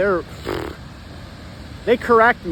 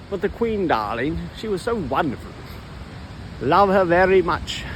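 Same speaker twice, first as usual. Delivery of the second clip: lightly posh English darling voice; effeminate English voice. Acted. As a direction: gush about England like a toff, lightly. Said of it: "Let's ask them to do a different impression".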